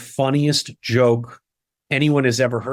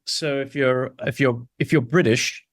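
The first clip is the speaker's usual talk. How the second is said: British RP accent. Shown as a demonstration. Illustrating British RP speech.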